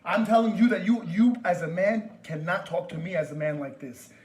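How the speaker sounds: loud, forceful telling-off; angry warning. Real, not acted. Caller demands respect from store worker, angrily. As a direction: start loud and hard, easing slightly.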